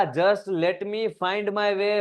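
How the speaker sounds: very slow, stretched reading of the line; drawn-out poem reading; slow poem recitation. Shown as a demonstration. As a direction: savour each word of the verse.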